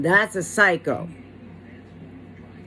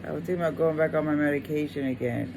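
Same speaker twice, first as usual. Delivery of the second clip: begging an ex back; 6 dB quieter, faster than usual. Retold or imitated. Mimics the ex-wife's plea.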